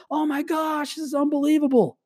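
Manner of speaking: high, breathy-soft amazed exclamation; delighted spouse. Retold or imitated. Coach imitating a husband or wife thrilled by the effort, high awe.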